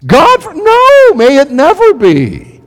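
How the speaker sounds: high, loud cry of protest; horrified outcry. Retold or imitated. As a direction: cry out in disbelief. Crowd's horrified reaction retold.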